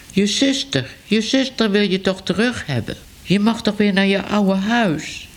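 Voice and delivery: a hint of a chatty cat passing on news; newsroom cat. Cat voiced higher in story.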